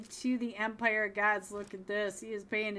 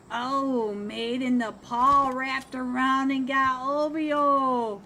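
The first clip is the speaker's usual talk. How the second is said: excited; 4 semitones higher, 8 dB louder, slower than usual. Real, not acted. Sudden knock in the fight.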